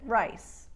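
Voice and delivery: "rice" ending in a crisp unvoiced S. Shown as a demonstration. Accent coach showing how rice is pronounced, "rice" ending in voiceless S. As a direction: say "rice" with a short vowel before a hissed S. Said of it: "as you or I might pronounce it".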